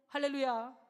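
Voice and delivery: loud exultant hallelujah; a real burst of joy; joyful hallelujah. Real, not acted. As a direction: shout praise to the congregation. Preacher exclaims praise.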